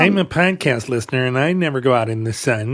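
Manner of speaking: lightly put-on nerd voice. An Australian podcast listener who avoids the sun, mock nerd voice. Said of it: "That's how nerds talk around the world".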